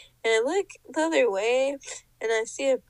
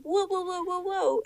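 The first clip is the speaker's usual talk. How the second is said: higher, rapid string of whoas; retold alarm; 6 semitones higher than usual. Acting out alarm at the boy's move, retold alarm. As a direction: back away with mock alarm.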